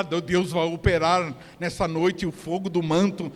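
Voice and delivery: lightly mimicked revivalist preacher; a hint of mock Pentecostal proclamation; churchy jargon voice. Preacher mimicking church jargon nobody understands, light mock-revivalist voice. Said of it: "Não tô falando daquele jeito lá".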